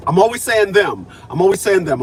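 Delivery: "always" punched in "I'm always saying them"; stress on always. Shown as a demonstration. Clearing things up with viewers, stressing "always". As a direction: hit "always" hard, falling at the end. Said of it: "I'm put big emphasis on that".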